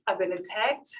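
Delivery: hushed and pleading, speeding up; mom's quiet distress. Retold or imitated. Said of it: "And she's like".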